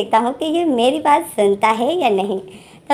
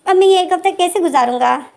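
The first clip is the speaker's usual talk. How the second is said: lightly voiced pleading, pitched up and louder; mock whiny plea; 7 semitones higher, 4 dB louder than usual. Wing begging boyfriend not to leave, mock whiny plea. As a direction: whine it like a clingy lover. Wing sad about Lenjan leaving.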